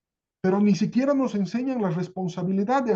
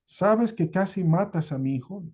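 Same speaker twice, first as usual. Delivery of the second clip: stunned echo. Retold or imitated. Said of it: "Joselito se queda pasmado".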